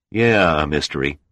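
dry, sneering repeat; caustic. Acted. Pilot's claim mocked back at him, caustic. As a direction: throw the words back with scorn. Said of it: "repeated caustically".

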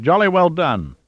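high-pitched, delighted praise with a falling finish; delighted cry. A narrator's reading. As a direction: cheer it in sheer delight. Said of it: "Plunkett cried in delight".

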